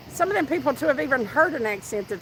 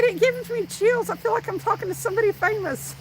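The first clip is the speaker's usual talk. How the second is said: starstruck quote; 9 semitones higher than usual. Retold or imitated. Quoting starstruck Australian girl.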